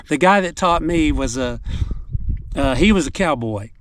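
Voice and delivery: talking while chewing gum; words around a wad of gum. Real, not acted. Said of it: "sorry, I've got gum in my mouth".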